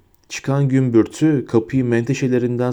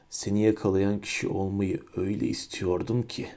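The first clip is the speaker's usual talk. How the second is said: whispered; 4 semitones lower, 10 dB quieter than usual. A narrator's reading. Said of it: "diye fısıldadı".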